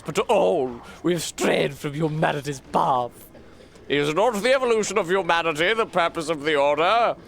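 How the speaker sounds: lightly voiced solemn inquisition debate; game character dialogue. Accused pleading before the Inquisitor and the Order, theatrical reading. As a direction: declaim it like a lightly acted tribunal scene.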